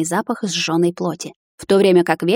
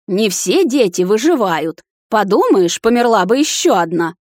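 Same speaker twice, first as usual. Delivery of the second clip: put-on shouting old witch, higher and louder; furious witch; 5 semitones higher, 4 dB louder than usual. A narrator's reading. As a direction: rant at the girl in fury. Witch rages at the heroine.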